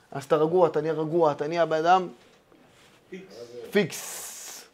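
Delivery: soft, sinking to a whisper; calm voice fading into a whisper; calm and hushed. Acted. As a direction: let it settle into a breathy hush. Describing becoming calm.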